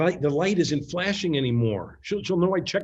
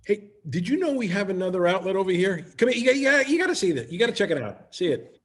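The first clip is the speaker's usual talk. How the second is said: forced cheerful distraction; 4 semitones higher than usual. Acted. Doug desperately distracting Carrie.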